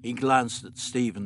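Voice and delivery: ordinary delivery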